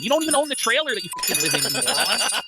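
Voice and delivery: fast, sneering roast; rapid mocking put-down; mock insulting rant. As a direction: tear into him with quick contempt. Replayed roast clip.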